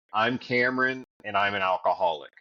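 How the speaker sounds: "alcoholic" dropped low and rushed out; reluctant confession. Retold or imitated. First AA meeting, reluctantly saying it fast and low. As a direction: push the words out fast and low, not wanting to say them. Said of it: "I didn't wanna say it".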